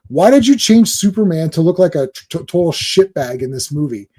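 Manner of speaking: mock accusing fan, pushy; confrontational question. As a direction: fire the question at him like an accusation. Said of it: "He, he didn't say it like that".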